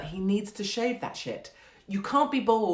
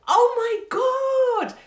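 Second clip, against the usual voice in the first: very high, loud, slow squealing delight; screaming mock delight; full psychopath joy; 9 dB louder, much slower than usual. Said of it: "you just bosh them with".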